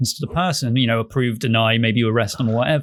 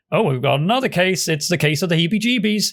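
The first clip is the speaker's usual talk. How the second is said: higher, quick mock enthusiasm; playful case pitch; 4 semitones higher, faster than usual. Game offering the player another case, playful pitch. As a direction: pitch the next case like an eager game host.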